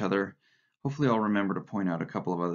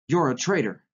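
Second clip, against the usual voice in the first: raised, louder accusing cry; boyish yell; 6 semitones higher, 5 dB louder than usual. A narrator's reading. Boy accusing Winston in a vicious game, narrated yell. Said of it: "yelled the boy".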